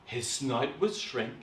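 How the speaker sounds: put-on slow, dramatic reading to children; measured, suspenseful storytelling; story narration. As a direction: draw out each step of the transformation. Reads story aloud.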